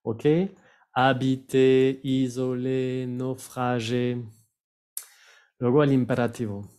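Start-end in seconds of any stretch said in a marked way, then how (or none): 0.9-4.2 "Habiter, isoler, naufrager" slow, each ending in é; measured list, final é clear in "Habiter, isoler, naufrager"; French pronunciation demo. Shown as a demonstration. Teacher applies the accent rule, "Habiter, isoler, naufrager" ending in é. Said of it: "sí se va a pronunciar E".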